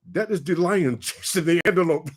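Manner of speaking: lightly imitated Kenyan accent; matter-of-fact Kenyan tracker. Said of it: "And the Kenyan goes".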